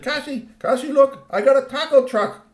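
high, loud, bursting with news; ecstatic. Acted. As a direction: shout the good news to a buddy. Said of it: "He was ecstatic".

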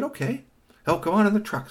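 high chirpy little robot voice; lightly voiced cheerful robot. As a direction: squeak it out like a tiny robot. Robot answers in bedtime story.

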